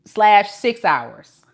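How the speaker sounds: loud, high emphatic outburst; amused exclamation. Real, not acted. Telling viewers how long the drive was, loud amused disbelief. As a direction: belt it out high after a real laugh.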